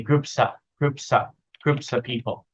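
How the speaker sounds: "groups of" run together, "of" reduced to a weak uh; "groups of people" said as one smooth chunk. Shown as a demonstration. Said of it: "So we say it like that".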